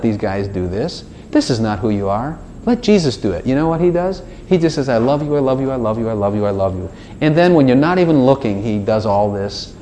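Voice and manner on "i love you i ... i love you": gently repeated love. Acted. Jesus reassuring the believer, gently repeated love. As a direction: repeat it tenderly without stopping, trailing down.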